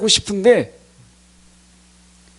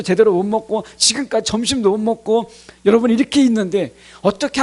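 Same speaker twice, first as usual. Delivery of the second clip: acted aggrieved complaint. Preacher acting out a worn-out churchgoer's protest to God, aggrieved. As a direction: imitate an indignant believer pleading their case.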